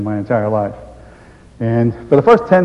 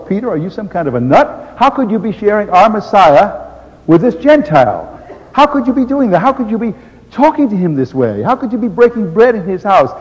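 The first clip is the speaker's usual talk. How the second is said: higher, louder, accusing questions; indignant council; 7 semitones higher, 4 dB louder than usual. Acted. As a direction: scold him for eating with Gentiles. Council berating Peter.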